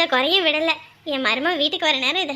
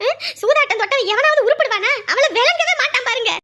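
angry rant; 4 semitones higher than usual. Acted. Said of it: "கோவப்படாத".

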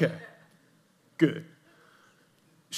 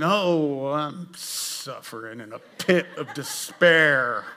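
mock despair; 2 semitones lower, much slower than usual. Mock gloomy reply.

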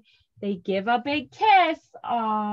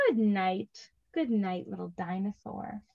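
put-on soft goodnight to a child; tender; 3 semitones lower, 6 dB quieter than usual. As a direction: say it gently at bedtime. Story ending goodnight.

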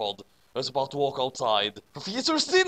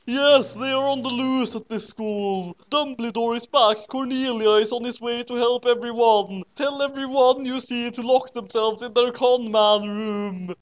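higher, urgent teacher voice; worried teacher; 8 semitones higher than usual. A narrator's reading. Trelawney warning everyone, higher and worried. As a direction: warn the students anxiously. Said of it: "Trelawney said worriedly".

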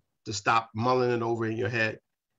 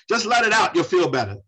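mock advice; 6 semitones higher, 7 dB louder than usual. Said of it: "What is the catharsis myth?".

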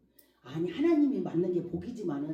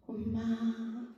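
very slow, drawn-out ailing call; long, aching plea; plaintive; 3 semitones higher, 3 dB quieter, much slower than usual. Retold or imitated. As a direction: imitate a sick child calling for a parent. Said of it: "이렇게 막 애절하게 부르면".

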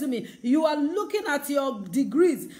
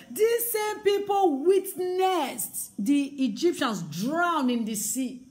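impassioned cry; slower than usual. Acted. Preacher in full cry about the Red Sea. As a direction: build to a cry.

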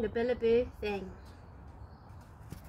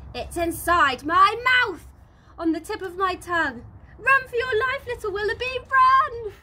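higher and louder, rising to a yell; urgent warning; 7 semitones higher, 7 dB louder than usual. Acted. Narrator warning the wallaby to flee the dingo, urgent yell. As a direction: sound the alarm, run!.

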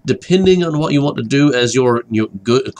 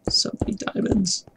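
excited; 9 semitones higher, 8 dB quieter than usual. Real, not acted. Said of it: "I got seriously distracted by diamonds".

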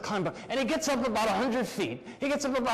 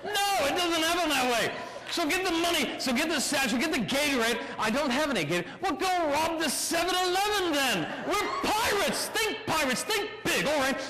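higher-pitched, impatient pirate ringleader; exasperated urging; 6 semitones higher than usual. Acted. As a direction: urge the crew on with exasperation. Acted argument between plotting pirates.

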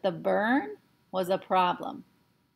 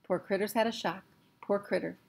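repeating to himself; 6 dB quieter than usual. Acted. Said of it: "kept repeating to himself".

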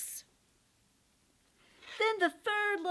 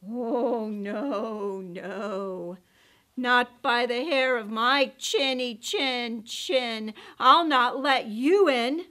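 calm little pig; 6 dB louder, slower than usual. Acted. Pig refuses.

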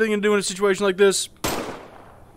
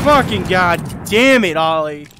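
exasperated yell; 5 dB louder than usual. Real, not acted. Friend blew himself up.

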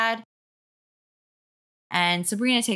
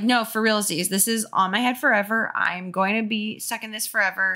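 hysterical; 2 semitones higher than usual. Acted. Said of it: "the speaker can't do this voice much longer".

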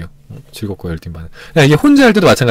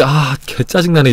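mock grumpy; 3 dB quieter, slower than usual. To viewers, the wrong reaction, a slow annoyed mutter. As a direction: sulk over a scraped knee. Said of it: "이러면은 짜증나는 일이 계속 찾아오는데".

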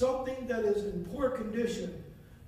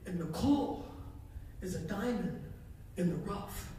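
hushed voice of the Lord; 5 semitones lower, 8 dB quieter than usual. Retold or imitated. Preacher retelling the Lord's words, soft and low. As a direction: speak it gently like a divine whisper. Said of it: "I heard the Lord say to me".

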